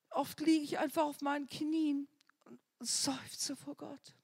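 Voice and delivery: hushed whisper fading out. Real, not acted. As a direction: breathe it as if kneeling. Describing kneeling sighing before God.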